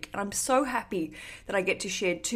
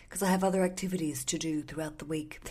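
creepy voice; 2 semitones lower than usual. Real, not acted. Explaining the recording day to listeners, in an accidentally creepy voice. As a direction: let it slip into a creepy half-whisper. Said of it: "it was a very creepy voice".

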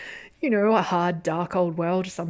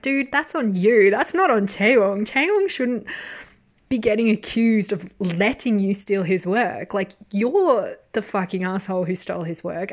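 heated, louder imagined comeback to the thief; angry retort; 4 dB louder than usual. Retold or imitated. A fan telling off the art thief, angry and loud. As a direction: tell the plagiarist off, fired up. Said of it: "And I'm like".

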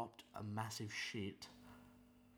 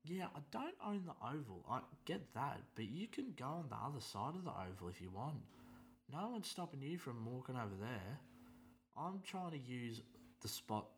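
exasperated; 6 semitones higher than usual. Retold or imitated. His retort to the lady.

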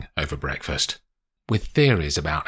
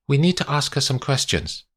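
higher-pitched Italian officer's English; Italian policeman; 9 semitones higher than usual. Acted. Police officer announces questioning of the lawyer, formal Italian-accented English.

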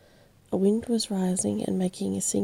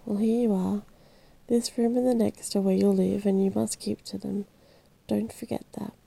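unceremonious. Acted. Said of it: "said unceremoniously".

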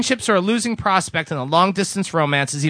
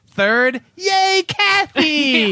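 high, stretched-out cheer for a name; 10 semitones higher, 3 dB louder, much slower than usual. Acted. Host cheering a listener's name in a letter, high and stretched. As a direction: draw out the yay like a fan.

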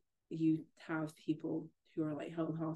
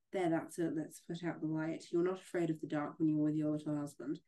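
story reading. A narrator's reading. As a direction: read the scene to a friend, dramatically. Reads novel passage aloud.

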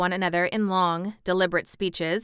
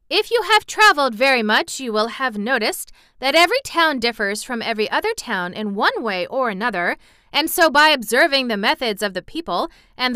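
put-on rambling boy; 4 semitones higher, 5 dB louder than usual.

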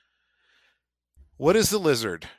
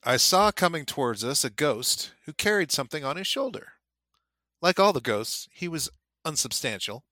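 measured, slightly raised reading voice; story reading; 3 semitones higher than usual. A narrator's reading. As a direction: read the passage like a storyteller. Reads a novel passage aloud.

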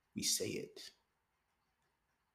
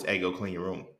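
put-on mild calm parent asking the kid to clean up; 2 semitones lower than usual. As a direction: ask it gently, no edge. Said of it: "in a calm voice".

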